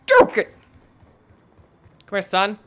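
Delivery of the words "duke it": sudden high shout; yell. Real, not acted. Gamer shouting at the screen in a fight, high yell.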